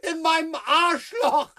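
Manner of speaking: half-shouted, pitched high. Acted. Shouting his hiding place, laughing.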